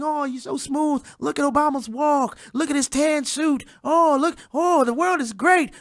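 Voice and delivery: a hint of a dreamy fan swooning. The media swooning over Obama, mild mock swoon. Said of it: "We're just swooning".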